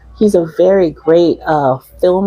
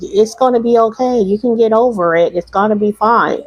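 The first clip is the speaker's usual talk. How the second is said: consoling voice; 4 semitones higher than usual. Retold or imitated. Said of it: "people are like, trying to console you".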